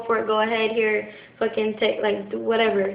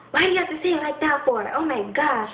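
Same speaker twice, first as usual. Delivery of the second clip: quick, higher-pitched mock indignation; touchy mom retort; 4 semitones higher than usual. Mom reacting to the slightest tone, imitated indignation. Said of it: "if you say it in the slightest tone".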